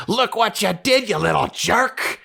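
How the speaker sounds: high-pitched exasperated outburst; fed-up uncle blurting it at a kid. Retold or imitated. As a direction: snap it high in frustrated anger, stretching the last words. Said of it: "his uncle says it in this voice".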